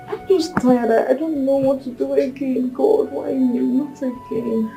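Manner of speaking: soft, spent pleading; weary despair. Acted. Woman asking God why she failed again, weary despair. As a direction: plead quietly, worn out with grief.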